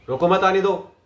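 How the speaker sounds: "रोको मत आने दो" in one go; run together without pause. Shown as a demonstration. Coach demonstrates pace and speed, run together. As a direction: say "रोको मत आने दो" straight through. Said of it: "pace, speed".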